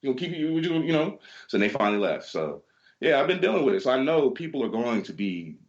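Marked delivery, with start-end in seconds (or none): 0.0-1.2 daring challenge. Retold or imitated. Clerk dares the angry guests to fight, defiant. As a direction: square up to the cussing pair.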